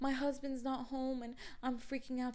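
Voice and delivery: put-on high, soft, whiny girl voice; panicking neighbour. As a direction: imitate a neighbour freaking out, high-pitched. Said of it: "she's like".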